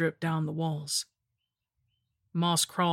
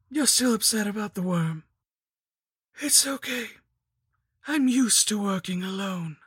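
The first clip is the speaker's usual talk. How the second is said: higher, sugary crone voice; mock-polite lich; 4 semitones higher than usual. A narrator's reading. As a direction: feign kindness like a sly hag.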